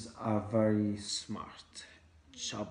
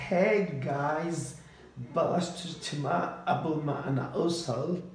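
loud call; 2 semitones higher, 7 dB louder than usual. Acted. Latecomer calls out on arriving.

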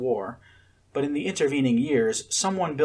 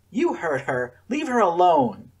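higher, louder angry shout; angry bark; 8 semitones higher, 5 dB louder than usual. A narrator's reading. Akira defending Scarlet from Josiah, angry bark. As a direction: bark it at him. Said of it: "Akira barked at Josiah".

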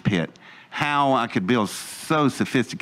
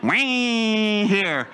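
mock yelp; 9 semitones higher than usual. Onlooker reacts to the cut.

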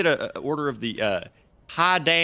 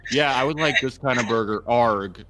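mocking his gruff accent; Jackson accent; 12 dB louder than usual. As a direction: imitate the way he talks. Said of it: "Just doing the Jackson accent".

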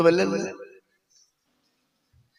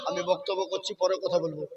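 much softer, off-mic aside; quiet aside; 4 semitones lower, 15 dB quieter than usual. Real, not acted. Preacher quietly tells someone nearby to wait. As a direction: drop the voice for a quick aside.

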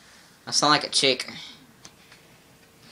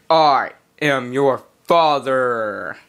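lightly voiced movie villain; 6 semitones lower, much slower than usual. Quoting Darth Vader to Luke.

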